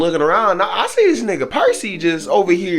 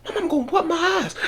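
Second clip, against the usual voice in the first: laughing panic; 5 dB quieter than usual. Retold or imitated.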